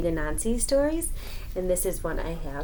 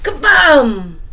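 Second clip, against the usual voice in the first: shouted Kabam, higher; loud boom; 6 semitones higher, 14 dB louder than usual. A narrator's reading. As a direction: slam it out like a crash. Sound effect in story.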